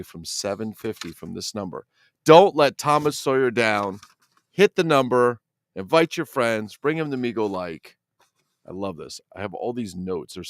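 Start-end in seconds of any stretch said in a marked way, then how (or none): 2.2-8.0 rallying cheer. Real, not acted. Rallying viewers to hit subscriber goal.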